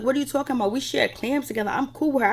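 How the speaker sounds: mock protest. Recapping Jackie denying she talked about her, mock protest. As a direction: imitate someone protesting her innocence.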